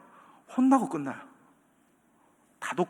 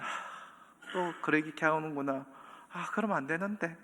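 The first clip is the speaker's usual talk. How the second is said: softer, held-in inner voice; calm on the surface; 7 dB quieter than usual. Retold or imitated. Preacher recalling hearing the advice, calmly suppressed. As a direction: keep it calm while seething. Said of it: "겉으로는 평온하게".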